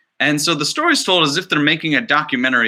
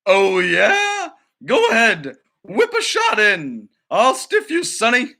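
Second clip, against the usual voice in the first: feisty grandmother; 7 semitones higher, slower than usual. Acted. Grandmother challenging the director, feisty and higher. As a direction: dare him to shoot like a tough old goalie.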